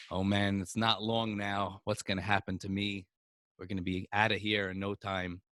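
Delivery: low, soft, mildly resigned; understated, quiet dread; gloomy thinking aloud. Acted. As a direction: murmur a worried thought to yourself. Mushka's gloomy thoughts in bed.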